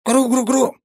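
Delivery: loud high squeaky wail; creature wail. A narrator's reading. Tiny tree creature protests at the god, loud high wail. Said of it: "заголосил древень".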